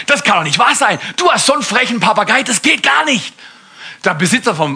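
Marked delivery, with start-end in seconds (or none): 0.1-3.3 entrüstet. Acted. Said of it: "Der Mann ist entrüstet".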